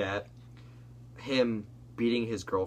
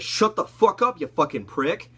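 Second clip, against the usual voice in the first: high, loud mock yell; pitched-up angry outburst, acted out; retold screaming; 7 semitones higher, 7 dB louder, slower than usual. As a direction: imitate a furious gamer snapping back. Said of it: "he starts screaming his fucking throat off".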